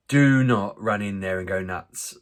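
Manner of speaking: slow, firm parental order; stern warning. Retold or imitated. Dad to his boys at the front door, stern warning. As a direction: lay down the law, slowly, leaning on the first words.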